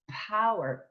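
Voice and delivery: Power with a crisp P off the lips. Shown as a demonstration. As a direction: pop the P of Power lightly. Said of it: "the P coming off the lips".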